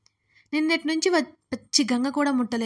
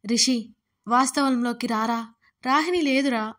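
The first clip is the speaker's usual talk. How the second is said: ordinary delivery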